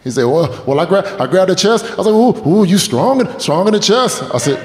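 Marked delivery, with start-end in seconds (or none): 0.2-1.9 high, stammering tearful confession; imitating a friend blubbering his story; mock crying. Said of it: "really crying right now?". 2.1-4.2 high, stammering tearful confession; imitating a friend blubbering his story; mock crying. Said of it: "really crying right now?".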